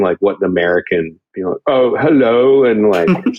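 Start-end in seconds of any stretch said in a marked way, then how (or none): 1.7-2.6 lightly put-on British greeting; an American's attempt at a British accent; mock British accent. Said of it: "what the real accent sounds like".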